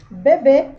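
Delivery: "bebê" loud, with a closed ê; closed vowel. Shown as a demonstration. Teacher gives pupils a circumflex example, closed-vowel "bebê". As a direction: project "bebê", keeping the final ê narrow. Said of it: "um som mais fechado".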